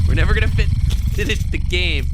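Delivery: words squeezed through laughter; laughing while talking. Real, not acted. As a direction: talk through the giggles.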